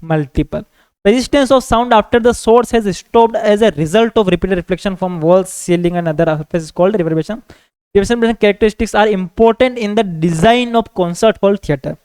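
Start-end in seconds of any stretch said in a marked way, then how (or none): 1.0-11.9 very slow, word by word for copying; measured note-dictation voice. Acted. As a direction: dictate it so students can write it down. Teacher dictates notes in English.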